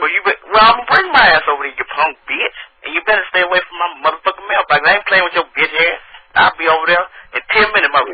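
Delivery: mock-threatening countrified rant; country voice. Prank caller threatening to come over, riled country accent. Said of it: "my country ass voice".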